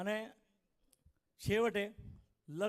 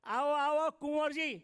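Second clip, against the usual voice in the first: louder, higher hearty welcome; welcoming mother-in-law; 7 semitones higher, 6 dB louder, slower than usual. Retold or imitated. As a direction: greet the son-in-law with open arms. Mother-in-law greets groom warmly.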